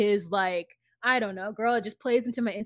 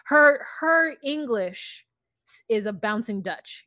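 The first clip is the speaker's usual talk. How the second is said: hint of Dutch accent; 4 dB louder, slower than usual. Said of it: "she has that bouncing English accent".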